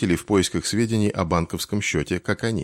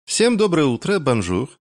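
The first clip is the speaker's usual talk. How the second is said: high, bright chirpy greeting; щебеча; 7 semitones higher, 3 dB louder than usual. Acted. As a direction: chirp it out like a cheerful bird. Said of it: "прощебетала Клер". (весело прощебетать)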